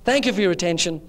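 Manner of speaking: mock captain's cabin announcement, lightly put on; airline captain announcement. Captain tells passengers they're about to crash, mock announcement. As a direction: play a captain addressing the passengers over disastrous news. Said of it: "suddenly you hear, This is your captain".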